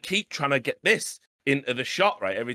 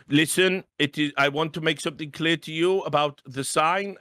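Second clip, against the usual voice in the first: earnest mock producer, slightly raised; lightly put-on stilted official; imitating ESL producer; 2 semitones higher than usual. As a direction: lay down the rules in mock earnest. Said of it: "And goes".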